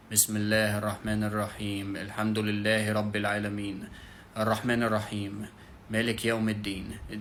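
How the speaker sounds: monotone recitation, quick and level, with no melody. Shown as a demonstration. Teacher demonstrating how not to recite, very monotone. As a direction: read the verses out on one note. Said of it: "Just a very monotone voice".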